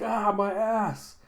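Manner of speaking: high, loud, drawn-out yelp; mock howl of pain. Thug jabbed in the rear, drawn-out mock howl. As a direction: wail it slowly in comic agony.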